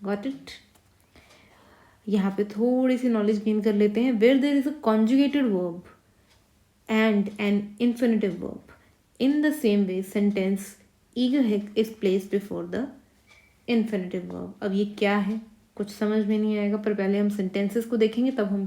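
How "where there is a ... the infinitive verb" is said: very slow, deliberate reading of the rule. Shown as a demonstration. Teacher slowly reading a grammar rule aloud. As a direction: read the grammar rule out word by word. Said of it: "reading a grammar rule".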